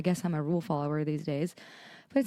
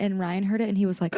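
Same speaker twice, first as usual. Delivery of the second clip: ordinary talk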